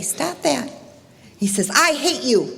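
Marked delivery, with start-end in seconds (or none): 0.0-0.7 higher, softer mimicked protest; lightly voiced echo. Echo answering the boy's protest, lightly mimicked, higher and softer. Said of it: "he hears the voice come back". 1.7-2.5 a hint of a hurt child, higher; lightly voiced upset boy. Storyteller as boy to unseen voice, mildly upset child. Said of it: "he starts to cry".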